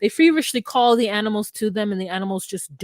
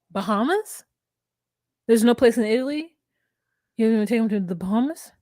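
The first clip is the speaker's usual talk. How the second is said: incredulous. Retold or imitated. Retold incredulous reaction to the scene.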